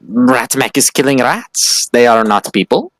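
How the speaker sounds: stilted, matter-of-fact creature voice; rat-creature. Acted. Player voices Ratmac.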